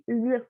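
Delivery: "Lho" with the LH as a single palatal sound; one LH sound. Shown as a demonstration. Teacher to pupils, sounding out the LH. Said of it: "ele tem um som só".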